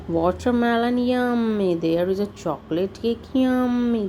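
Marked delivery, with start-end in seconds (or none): 0.1-1.7 delighted yummy. Acted. Reader relishing picnic foods. 3.3-4.1 delighted yummy. Acted. Reader relishing picnic foods.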